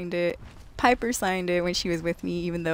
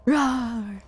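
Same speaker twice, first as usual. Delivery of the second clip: playful roar; 4 semitones higher than usual. Pretend. Imitated roar in game.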